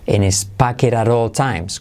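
"pocket at all" run together as "paqueraró"; linked soft R. Shown as a demonstration. Teacher modelling for learners, "pocket at all" linked with taps. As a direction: tap the Ts in "pocket at" like Spanish R. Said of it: "se convierte en R suave".

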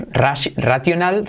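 "racional" said the Spanish way; teacher contrasting Spanish racional. Shown as a demonstration. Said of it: "Fijaos en la diferencia".

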